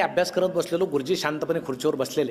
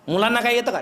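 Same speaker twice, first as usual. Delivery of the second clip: higher, louder mock indignant demand; imitating an angry officer; 5 semitones higher, 3 dB louder than usual. Officer angry at the teacher, mock furious. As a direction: bark it like an irritated inspector. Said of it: "साहेब संतापले".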